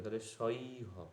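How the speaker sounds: সই হ said slowly with an ই sound; careful pronunciation. Shown as a demonstration. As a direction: say সই হ slowly, turning উ into ই. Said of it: "ই করতে হবে". (ধীরে সই হ উচ্চারণ)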